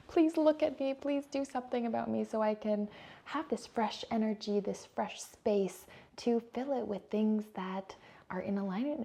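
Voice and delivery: a lightly acted call for attention; pleading. Cluttered corner calling to its owner, mildly pleading.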